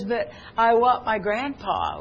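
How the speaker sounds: lightly imitated tearful plea; a touch of a child's whimper; imitated crying child. Granddaughter crying for her grandpa, mildly imitated tearful plea. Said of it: "And she was crying".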